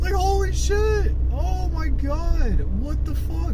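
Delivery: high-pitched, drawn-out amazed gasping words; happy disbelief. Retold or imitated. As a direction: relive being thrilled and stunned, voice way up high. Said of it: "I was so fucking happy".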